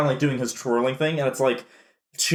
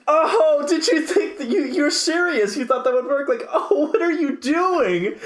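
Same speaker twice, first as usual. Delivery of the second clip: Sami Zayn; 13 semitones higher than usual. Retold or imitated. Imitating a wrestler talking over the commentators, high and incredulous. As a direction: heckle in an exaggerated high voice, stretching the last question. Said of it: "Sami Zayn doesn't stop talking".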